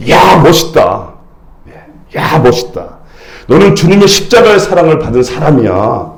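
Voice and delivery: demonstrated morning affirmation, rising in pitch; mirror pep talk. Shown as a demonstration. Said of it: "이렇게 외치고 하루를 시작하라는 거죠".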